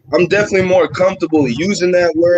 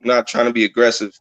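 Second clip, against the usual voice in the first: just-woke-up voice; 6 semitones lower than usual. Real, not acted. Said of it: "a little extra bass in my voice".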